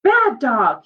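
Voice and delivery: put-on boy scolding the dog that chewed his sister's doll. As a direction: snap at the dog, then catch yourself. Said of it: "he almost scolded".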